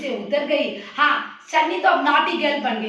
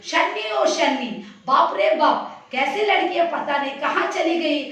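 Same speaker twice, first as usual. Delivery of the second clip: raised voice. Acted. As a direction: call out for the missing child, voice raised. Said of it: "उस ऊंची आवाज है".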